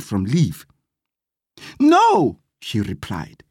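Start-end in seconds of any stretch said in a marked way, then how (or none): 1.8-2.4 high, emphatic no; firm refusal. A narrator's reading. Gladys turns down a permanent job, emphatically refusing.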